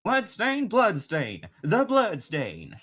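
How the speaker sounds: put-on slow Southern country accent. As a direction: drawl the name like a Southern country man. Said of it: "more of a country accent".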